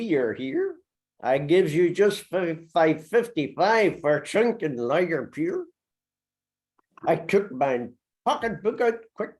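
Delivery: put-on light German accent reading comic verse; a hint of German accent in a comic poem; German dialect. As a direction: play a jolly German drinker, lightly. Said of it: "This is a German dialect poem".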